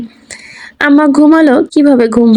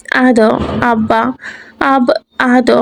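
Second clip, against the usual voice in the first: put-on crying child; much slower than usual. A narrator's reading. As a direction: stammer through tears like a toddler. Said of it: "কেঁদে কেঁদে বলে". (কান্নাভেজা ভাঙা ভাঙা শিশুকণ্ঠ)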